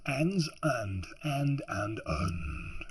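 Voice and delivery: "and" tried over and over, British style; British "and" attempts. Shown as a demonstration. Reader unsure of British vowels, trying out "and". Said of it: "how to do the ands in Britain".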